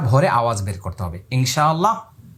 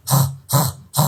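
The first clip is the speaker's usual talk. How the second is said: coconut-cutting grunt; slower than usual. Shown as a demonstration. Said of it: "এই যে আওয়াজটা হয়".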